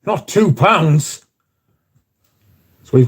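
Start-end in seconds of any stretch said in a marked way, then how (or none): 0.0-1.2 high, slow, hammed-up dismay; mock horror. Mocking mum over a two-pound water bill, hammed-up horror. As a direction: gasp in fake shock at a tiny bill. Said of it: "I was like".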